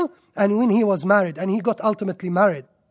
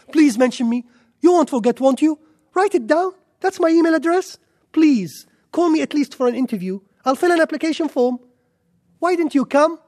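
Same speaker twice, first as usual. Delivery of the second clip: pleading higher, louder and rushed; mock a desperate job-seeker begging; groveling beggar; 5 semitones higher, 3 dB louder than usual. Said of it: "Neither did he humiliate himself".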